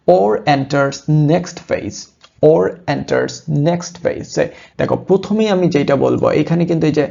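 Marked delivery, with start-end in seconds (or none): 0.1-4.3 careful slow English reading of a headline. Shown as a demonstration. Teacher reading a news headline to students, slow and careful. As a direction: read each word out slowly and deliberately. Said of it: "reading headline aloud slowly".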